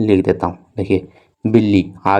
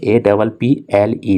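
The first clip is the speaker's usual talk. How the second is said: slow spelling; slower than usual. Shown as a demonstration. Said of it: "देखिए यहाँ पे लिखा हुआ".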